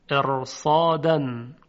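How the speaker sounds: slow, loud ارصادن with a heavy R; heavy tafkhim R. Shown as a demonstration. Teacher introduces the next example word, heavy R in ارصادن. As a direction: stretch ارصادن, thickening the ر before the ص.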